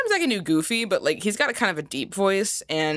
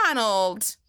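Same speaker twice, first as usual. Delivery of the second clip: bossy Daisy; 3 semitones higher, slower than usual. Retold or imitated. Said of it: "Daisy honestly just sounds like a boss bitch".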